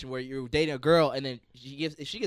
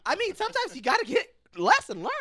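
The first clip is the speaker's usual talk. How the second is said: mock tough; 6 dB louder than usual. Joking tough talk.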